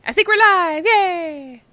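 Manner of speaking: high, bright cheer going live; excited. Real, not acted. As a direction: announce it with a thrill. Excited start of live stream.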